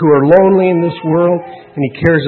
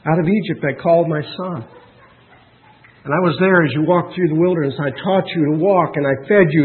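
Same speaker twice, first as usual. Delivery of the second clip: gentle, earnest voice of a caring God; tender pleading, gradually more fervent. Acted. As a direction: recount it lovingly, building gradually. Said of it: "The tender voice of God says".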